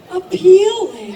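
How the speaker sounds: sultry drawn-out. Acted. Flirty drawn-out word.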